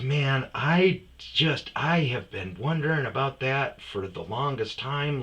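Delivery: loud, high imitation of an amazed professor; mock amazement. Professor finally learning the truth, high loud amazement. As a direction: draw out the start, then marvel loudly.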